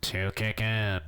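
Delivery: blocked nose voice; stuffy nose. Real, not acted. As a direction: speak as if your nose is blocked. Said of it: "I'm stuffy".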